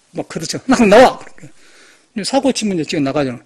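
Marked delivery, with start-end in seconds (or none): 0.7-1.2 loud barked order; angry command, shouted; retold shout. Shouting at official.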